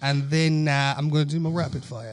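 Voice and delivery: put-on British accent. Co-host announces his segment in a put-on British accent. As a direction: keep up a fake British accent. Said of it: "everything I said was in British accent".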